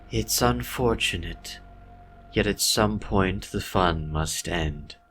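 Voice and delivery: mock him with sweet cruelty; gloating villain voice. White Diamond line.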